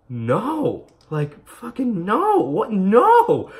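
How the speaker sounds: high, loud cry of denial, drawn out; loud disbelieving no. Retold or imitated. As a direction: refuse it at the top of your voice. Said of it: "I was like".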